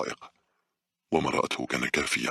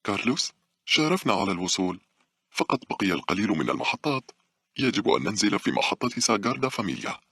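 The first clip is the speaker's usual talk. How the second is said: higher voice put on for a voice message; different, put-on voice; 6 semitones higher than usual. A narrator's reading. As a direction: switch to a higher phone-message voice. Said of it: "تستخدم صوتا مختلفا عن صوتها المعهود". (بصوت متصنّع أعلى من المعتاد)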